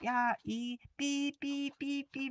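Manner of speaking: slow, drawn-out bleep sounds in place of curses; playful censored swearing; mock bleeped swearing. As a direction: bleep out your own curse words. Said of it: "삐 처리되는 거".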